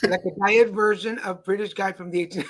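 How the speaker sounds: laughing through the words. Real, not acted. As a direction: crack up mid-sentence.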